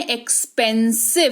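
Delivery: एक्सपेंसिव with a half k into s; correct X as ks. Shown as a demonstration. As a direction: model एक्सपेंसिव carefully with a clear ks. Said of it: "ये वाला सही उच्चारण है".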